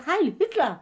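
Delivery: mocking Heil Hitler at the phone; mock German greeting. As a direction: imitate the shouted Nazi salute. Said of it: "sagde det".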